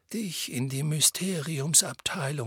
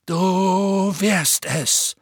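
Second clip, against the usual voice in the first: slow, loud, firm; unbending headmaster's firmness; 6 semitones higher, 7 dB louder, much slower than usual. Acted. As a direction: plant each word firmly. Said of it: "sagte Dumbledore mit fester Stimme".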